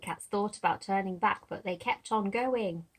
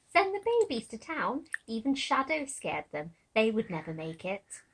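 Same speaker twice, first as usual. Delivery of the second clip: mocking; 2 semitones higher than usual. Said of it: "How the older kittens laughed".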